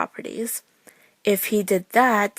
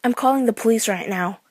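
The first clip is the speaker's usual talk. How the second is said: voice breaking; 3 semitones higher than usual. Retold or imitated. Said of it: "my voice broke as I said".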